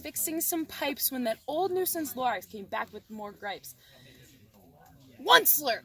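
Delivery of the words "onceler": loud calling of a name. A narrator's reading. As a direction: call out the name sharply. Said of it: "he coughed and whiffed".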